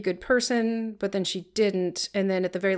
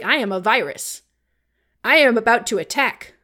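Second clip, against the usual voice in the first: cute germ voice; 4 semitones higher, 3 dB louder, slower than usual. Retold or imitated. Virus announcing itself, pew sounds.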